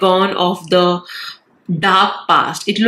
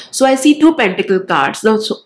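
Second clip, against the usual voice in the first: blocked nose from a cold; stuffy, nasal cold voice; 2 semitones higher than usual. Real, not acted. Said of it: "please don't mind my nasal voice".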